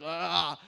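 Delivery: drawn-out open cry, half-joking; mock intense "ahh". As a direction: let out a mock-fierce "aah". Mocking own murderous-sounding intensity.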